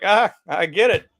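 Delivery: mock audience member catching the reference, slow and pleased; moment of recognition. Voices moviegoer's moment of recognition.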